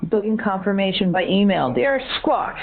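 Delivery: insistent begging that jumps high at the end; mock pleading. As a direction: plead in character, ending on a high squawk. Caller begs for email confirmation.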